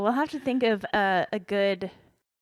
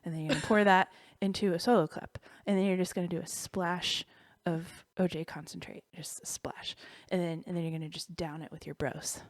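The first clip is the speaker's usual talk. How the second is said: stoner voice. Acted. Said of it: "it would just be like a stoner voice".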